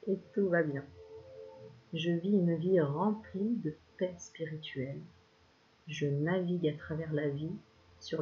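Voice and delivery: slow, even mantra reading; calm affirmations. Acted. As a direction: recite each line as a soothing affirmation. Reads a list of affirmations. (affirmations lentes et posées)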